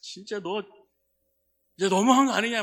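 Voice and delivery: put-on angry muttering. Retelling muttering alone while driving after a friend's hurtful words: imitating angry muttering. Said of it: "운전하면서 중얼중얼".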